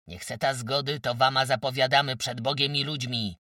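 loud, forceful warning speech; roaring threat. A narrator's reading. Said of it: "ryknął, wyciągając pięście".

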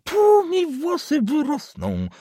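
put-on furious old man. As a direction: hurl the threat at the young man. Old councillor threatens.

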